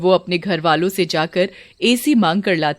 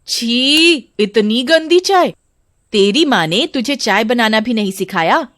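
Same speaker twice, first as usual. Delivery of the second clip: disgusted scolding; 4 semitones higher than usual. Acted. Mother-in-law rejects the bride's tea, disgusted scolding. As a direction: spit out the words in disgust.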